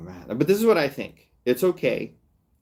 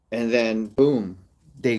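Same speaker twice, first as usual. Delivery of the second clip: ordinary delivery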